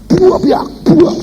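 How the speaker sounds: high-pitched banging crash sounds; "buak" as a crash effect; imitated crash noise. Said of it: "sampai keras sekali".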